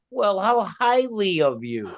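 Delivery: high, drawn-out English impression; mock English accent. Imitating a friend's reply to being repaid, mock English accent. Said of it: "he has an England accent".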